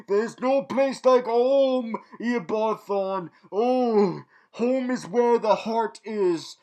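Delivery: loud, high, slow and hammed-up; mock sentimental. Reviewer gushing over Thawne's journey home, mock sentimental. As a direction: draw out the clichés with grand pretend emotion. Hams up sentimental homecoming clichés.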